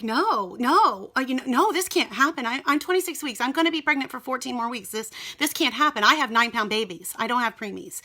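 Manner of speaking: mildly re-enacted panic, pleading against it; retold panic. Mother refusing an early delivery, starting to panic. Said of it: "starting to panic".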